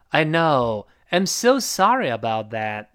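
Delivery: slow, drawn-out apology; apologetic husband, stretching the key words. Shown as a demonstration. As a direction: sound truly sorry, slowly. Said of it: "抱歉的这个语气把它带出来".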